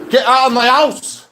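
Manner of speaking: slow, very high, very loud scream. Real, not acted. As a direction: scream it at full force. Final scream at landlord.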